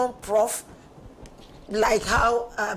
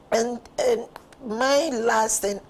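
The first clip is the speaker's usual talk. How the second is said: straining to get words out; strained voice; 5 dB louder, much slower than usual. Real, not acted. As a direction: voice strained and effortful. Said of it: "I'm struggling with my voice".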